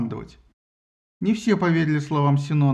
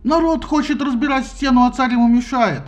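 much higher, louder squealing shriek; 8 semitones higher, 4 dB louder than usual. A narrator's reading. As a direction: squeal like a rabble-rouser. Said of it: "взвизгнул Синон". (визгливый крик)

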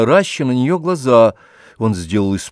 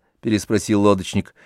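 usual speaking voice

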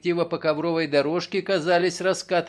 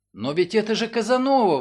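loud surprised exclamation; exclaiming; 5 semitones higher, 4 dB louder than usual. Acted. Ellen recognises her parrot, exclaiming loudly. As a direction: burst out in recognition. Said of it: "воскликнула она".

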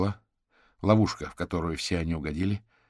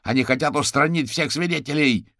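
loud, higher furious cry; shouting out; 9 semitones higher, 9 dB louder than usual. A narrator's reading. Caterpillar yelling that the Circle wants witnesses dead. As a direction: hurl the accusation. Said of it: "выкрикнул Гусеница".

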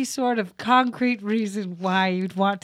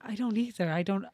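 whisper; 2 semitones lower, 7 dB quieter than usual. Acted. Guest whispers back.

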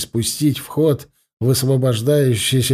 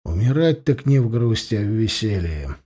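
sad; 3 semitones lower than usual. Acted. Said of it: "печально произнёс Ирдис".

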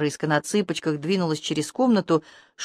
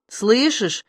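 conspiratorial croak; 3 semitones higher than usual. Acted. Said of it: "заговорщически прохрипел умирающий".

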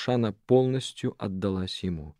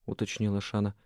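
ordinary delivery, nothing marked

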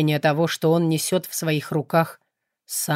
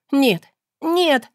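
higher, louder, building to a full scream; anguished scream; 11 semitones higher, 6 dB louder, much slower than usual. Acted. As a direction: throw the head back and scream out the pain. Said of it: "закричала, запрокидывая голову".

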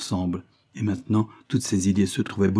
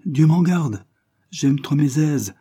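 scoffing exclamation; 7 semitones higher, 6 dB louder, slower than usual. A narrator's reading. Afy scoffing at marriage.

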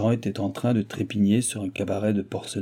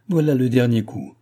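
mildly raised cry of despair; 4 dB louder than usual. A narrator's reading. Du Barry reacting to the anonymous letter, a despairing exclamation. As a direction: exclaim it as the final blow, with some force. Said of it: "s'écria du Barry, au désespoir".

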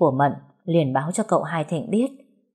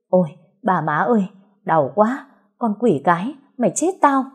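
pained outcry; 3 semitones higher than usual. Acted. Bitten master cries out in pain.

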